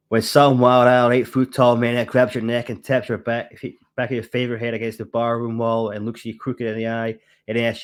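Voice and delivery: lightly attempted American accent; Jack Burton. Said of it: "Do the accent".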